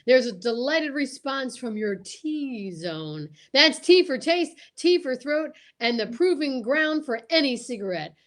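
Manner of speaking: announcer pitch with hammed-up enthusiasm; ad read. The speaker reads a mock Camel ad to listeners, salesy. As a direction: sell it like a radio pitchman.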